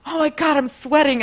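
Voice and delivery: high-pitched exasperated exclamation; mock overheated fuss; retold complaint. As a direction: whine it up high, lightly. Retells her complaint.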